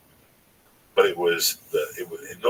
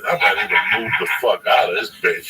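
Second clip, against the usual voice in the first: retold angry outburst; 5 dB louder than usual. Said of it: "I was pissed".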